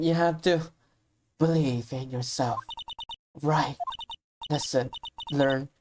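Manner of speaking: lightly voiced gentle mentor, hushed at the ends; soft wise mentor. Voices mentor reading wise lines.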